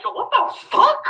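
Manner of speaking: high, disbelieving yo what the fuck; shocked yo what the fuck. Retold or imitated. Reacting to the messages, a high shocked cry. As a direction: pitch jumps up in disbelief.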